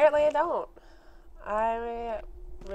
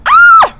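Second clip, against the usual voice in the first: very high, very loud scream; piercing scream of fright; terrified shriek; 26 dB louder than usual. Real, not acted. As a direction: shriek at a jump scare. Monster scare in game.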